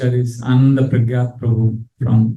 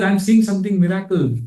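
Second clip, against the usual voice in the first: awed; 5 semitones higher than usual. Retold or imitated. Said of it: "something miraculous".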